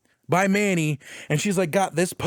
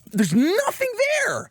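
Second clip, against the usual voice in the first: mock empty voice. Mocking an empty character scene.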